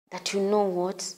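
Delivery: inward confident voice. Shown as a demonstration. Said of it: "say it inwardly with a lot of".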